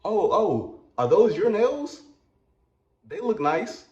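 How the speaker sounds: high, flustered compliment; awkwardly eager chatter; panicking in front of the manager; nervous small talk. Retold or imitated. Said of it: "asking stupid ass questions like".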